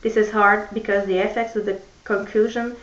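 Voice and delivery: put-on careful English read-aloud with a French accent; measured first-person story narration. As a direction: read the novel's opening slowly to the class. Reads Mockingjay extract aloud.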